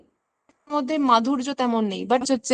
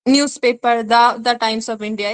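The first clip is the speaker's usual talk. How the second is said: slow example read; much slower than usual. Shown as a demonstration. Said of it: "the Mount Everest".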